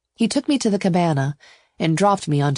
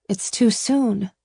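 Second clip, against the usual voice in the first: higher, drawn-out protest; 5 semitones higher, slower than usual. A narrator's reading. Ava resists a hasty wedding, high and protesting. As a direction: object slowly in a raised pitch. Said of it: "I protested".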